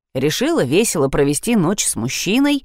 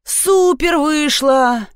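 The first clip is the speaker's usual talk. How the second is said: yelled; 8 semitones higher, much slower than usual. Acted. Boy shouts from the bedroom, yelling. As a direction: holler it with glee. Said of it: "заорали из моей спальни".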